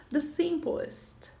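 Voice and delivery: the simplest drawn out slowly, each sound clear; teacher spelling out the simplest; slow careful model word. Shown as a demonstration. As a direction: say the simplest slowly for the class to copy. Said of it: "nós temos o simple".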